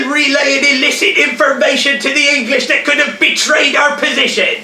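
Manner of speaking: barking officer. Acted. Officer interrogating shouting.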